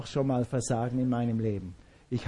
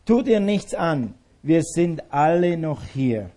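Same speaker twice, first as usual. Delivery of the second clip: calling out; 5 dB louder, slower than usual. Retold or imitated. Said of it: "Was hat er dann gerufen?".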